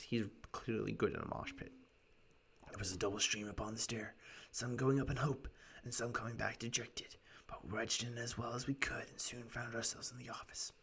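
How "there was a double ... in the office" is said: lightly rasped storytelling client; raspy voice. Acted. Client telling gentlemen his story, lightly raspy voice. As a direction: recount it with a hint of rasp. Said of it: "doing this raspy voice for him".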